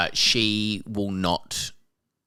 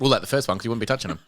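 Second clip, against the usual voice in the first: laughing; 3 semitones higher, faster than usual. Real, not acted. Amused at own quip.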